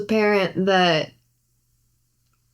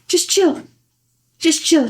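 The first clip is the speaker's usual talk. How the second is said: mock chill voice; 9 semitones higher than usual. Mimicking machete guy's attitude.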